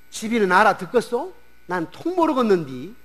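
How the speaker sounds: put-on lightly Jeolla-accented bafflement; 전라도 사투리로 갸우뚱하며; Jeolla dialect. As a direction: ask like a puzzled Jeolla villager. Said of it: "전라도 사람이 또 말을 했다면".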